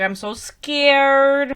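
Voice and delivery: slow, stretched-out pretend fear; mock scared. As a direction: drag out "scared" in hammed-up fright. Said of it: "She doesn't wanna go with him".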